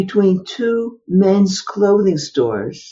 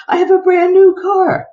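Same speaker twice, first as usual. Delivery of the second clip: laughing disbelief; 11 semitones higher, 4 dB louder than usual. Retold or imitated. Disbelief at dream prophecy.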